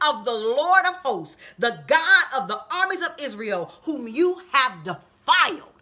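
slow, drawn-out preaching declamation; David's bold declaration. Retold or imitated. David answering the Philistine giant, boldly declaiming. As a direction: proclaim it phrase by phrase, holding key words.

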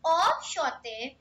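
Enchanté drawn out slowly, each syllable clear; slow careful repeat. Shown as a demonstration. Teacher slowly repeats Enchanté for learners, careful and slow. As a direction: say Enchanté slowly for the class to copy. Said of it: "I repeat".

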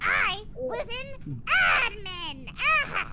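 mock grand voice. Announces in a put-on voice.

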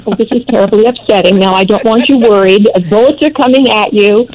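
lightly voiced worried mother; a hint of mock motherly fussing; fussing mommy. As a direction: imitate a mother fretting over her boy. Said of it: "gonna be a mommy by the side going".

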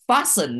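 "fasten" with its first syllable stressed. Shown as a demonstration. Teacher shows where the word is stressed, "fasten" stressed up front. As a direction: hit the first syllable of "fasten", leave the second light. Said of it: "nó nhấn vào âm tiết thứ nhất".

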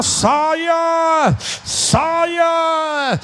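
high, loud casting-out cry; commanding shout. Acted. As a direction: order it out with force. Preacher calls out demon.

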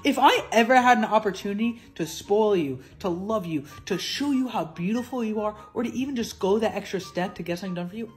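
loud, passionate declaration; loud sharp voice. Real, not acted. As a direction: declare it like a rallying cry. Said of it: "Why are you yelling?".

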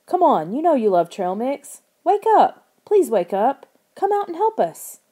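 high, loud frantic begging; desperate pleading. A narrator's reading. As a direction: plead with rising panic. Begging frozen snowman to wake.

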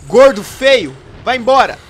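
loud high shout at a monster; scared shout. Real, not acted. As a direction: yell to drive it off. Yelling at the monster.

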